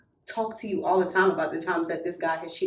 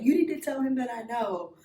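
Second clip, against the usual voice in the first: higher mock ultimatum; retold threat; 5 semitones higher than usual. Betrayed girl orders friend to tell him, mock threatening. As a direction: repeat the demand, insistent. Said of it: "that was like a threat".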